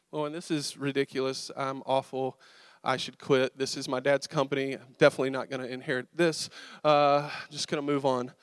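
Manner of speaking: imitating embarrassed, defeated muttering to oneself; dejected self-talk. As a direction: beat yourself up under your breath. Embarrassed self-talk after missing the nail.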